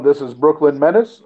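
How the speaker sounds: a lightly voiced announcer intro; imitating Brooklyn Menace. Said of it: "take an audio clip of him going".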